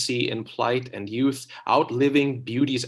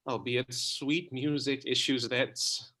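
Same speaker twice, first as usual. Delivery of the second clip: softer loving reply; tender; 7 dB quieter than usual. Acted. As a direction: say it gently as a lover.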